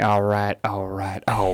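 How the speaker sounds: lightly imitated catchphrase, a little low; a hint of impression on a relaxed drawn-out catchphrase; Matthew McConaughey. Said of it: "Matthew McConaughey".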